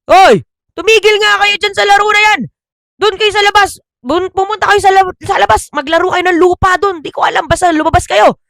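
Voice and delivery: high, loud mock yelling dad; imitated angry father. Father yelling at kids to go outside, hammed-up angry shout. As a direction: bark at the kids like an annoyed father. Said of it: "Sabi daw nung tatay".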